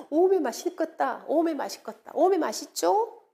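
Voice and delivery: playful Jeolla-dialect catchphrase. Shown as a demonstration. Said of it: "전라도 사투리로 쓰면".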